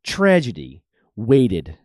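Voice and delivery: dramatic documentary narrator read. Acted. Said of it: "with my awesome narrator voice".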